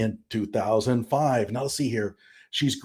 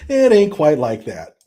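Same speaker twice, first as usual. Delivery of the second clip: louder repeat with a laugh, "ain't" leaned on; gleeful louder repeat; 3 semitones higher, 7 dB louder than usual. Real, not acted.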